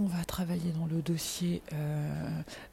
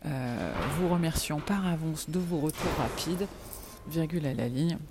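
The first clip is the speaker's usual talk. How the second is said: dictating. Real, not acted. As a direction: dictate an email word by word. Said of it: "je peux plus dicter".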